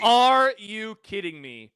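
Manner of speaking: incredulous. Real, not acted. Incredulous reaction.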